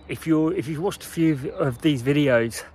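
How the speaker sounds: breathless from the bike ride, winded; out of breath. Real, not acted. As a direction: talk while catching your breath. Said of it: "sorry, I'm just catching my breath".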